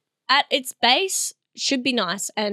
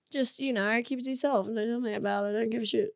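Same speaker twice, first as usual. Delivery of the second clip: hushed mock-bitter aside; grumbled aside; 9 dB quieter, faster than usual. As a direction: drop it right down, as if to yourself.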